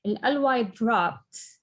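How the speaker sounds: slow teacher's demonstration; deliberately slowed explanation. Shown as a demonstration. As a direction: spell it out slowly. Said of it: "صوت فيها كتير واطي".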